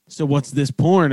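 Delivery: slow, deliberate mock-mom question; mom's slow question. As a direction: drag it out like a suspicious mom. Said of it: "look right at Matt and be like".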